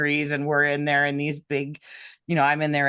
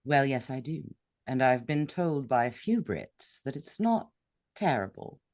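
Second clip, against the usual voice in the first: British accent; 4 dB quieter than usual. Shown as a demonstration. Actress showing the host she does British accents, British accent. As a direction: show off a modest British accent. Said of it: "you also do a British accent".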